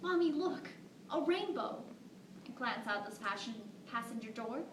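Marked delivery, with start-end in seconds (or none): 0.0-1.8 put-on high, excited child voice; little girl voice. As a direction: squeal like a small girl. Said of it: "this little tiny voice".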